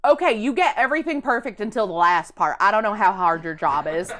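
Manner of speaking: put-on southern accent. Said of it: "She had a southern accent".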